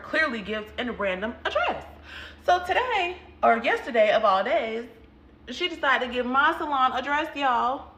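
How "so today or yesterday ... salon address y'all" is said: louder, higher exasperated telling; fed-up storyteller peaking. Real, not acted. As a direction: throw your hands up in disbelief. Exasperated reveal to viewers.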